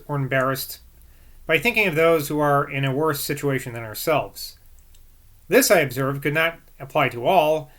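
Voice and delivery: measured book narration; formal read-aloud. A narrator's reading. Reader giving Boswell's view of Rousseau, formal read-aloud. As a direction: read the long sentences out with care.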